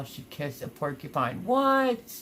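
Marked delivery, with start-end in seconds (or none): 1.4-2.1 sharp high startled what, much louder; shocked what. Real, not acted. Streamer reacting to a viewer's cow story, startled disbelief. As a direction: jolt of disbelief at the news.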